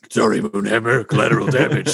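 put-on character voice, offhand apology. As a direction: toss off a mock apology in character. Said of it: "He's like".

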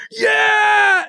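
high, loud whoop of joy; imitated cheer. Kids cheering the play in the next room, loud and high. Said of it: "And then I hear".

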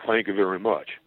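lightly imitated low rock-star thanks; a singer. Kaufman ending his singer impersonation act, lightly imitated star voice. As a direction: toss off the singer's sign-off. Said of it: "the singer at the end".

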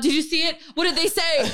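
a touch of mimicked fright; terrified man. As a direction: imitate a jumpy, scared bystander. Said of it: "he was so freaked out and terrified".

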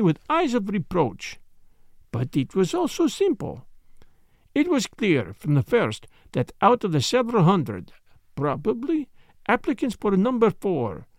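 put-on lightly accented detective, explaining with relish; Poirot. Detective explaining the case to his friend, lightly voiced lecture. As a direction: lay out the reasoning, question by question.

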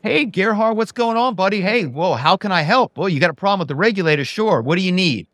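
imitating a thrilled, fawning vice president, pitched well up; starstruck eager VP. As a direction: gush like you just got the big boss on the line. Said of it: "the vice president would go".

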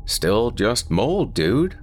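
drawn-out, unimpressed friend; slow dismissive. Acted. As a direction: shrug it off slowly. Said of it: "shook his head slowly".

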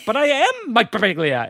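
high-pitched wounded protest; mock pleading. Locked-out owner to computer, pleading. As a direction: insist on it with hammed-up desperation.

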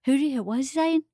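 lightly voiced baffled Southern father; Southern daddy. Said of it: "And he talks real Southern".

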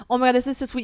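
touched exclamation. Retold or imitated. Retold emotional reaction backstage.

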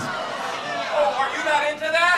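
high, airy teasing voice; mock coy tease. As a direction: tease like a flirt.

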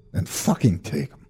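soft, half-whispered brush-off; dismissive mutter. Acted. Father in his easy chair, muttered brush-off. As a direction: wave her away with a mutter.

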